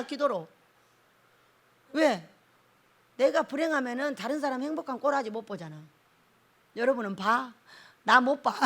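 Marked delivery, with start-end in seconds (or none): none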